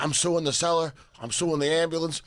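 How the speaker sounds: high-pitched protesting heckler; mock indignant outcry. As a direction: play an aggrieved drunk, voice pushed way up. Acts out bloodied heckler threatening lawsuits.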